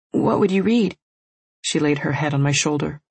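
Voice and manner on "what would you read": put-on young girl voice. Sleepy curious little sister.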